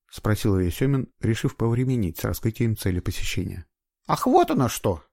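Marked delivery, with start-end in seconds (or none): 4.1-5.0 relieved sigh. A narrator's reading. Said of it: "облегчённо вздохнула женщина".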